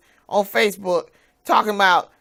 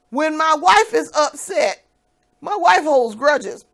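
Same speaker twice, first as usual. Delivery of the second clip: slow mocking quote of ex; 6 semitones higher, 4 dB louder, slower than usual. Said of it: "You the first one who said".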